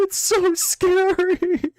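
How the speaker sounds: slow, breathy fake-frightened whisper; hammed-up fearful hush; mock scared whisper. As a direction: whisper it like a terrified child.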